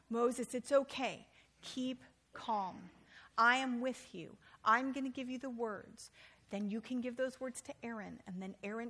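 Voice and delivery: calm a frightened servant; God calming a nervous Moses; reassuring God. Acted.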